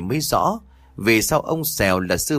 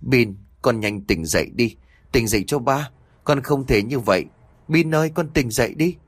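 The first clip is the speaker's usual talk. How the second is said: straining to speak. Acted. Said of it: "cố gắng gượng nói".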